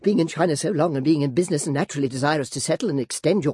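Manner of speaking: put-on high, girlish, fluttering chatter; coquettish Flora. Flora fishing for compliments from Clennam, high and girlish. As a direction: play the flustered former belle.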